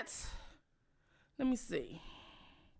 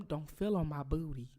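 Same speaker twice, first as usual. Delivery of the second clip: mock whisper to Biden; 9 semitones lower, 7 dB quieter than usual. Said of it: "I probably whisper in his ear".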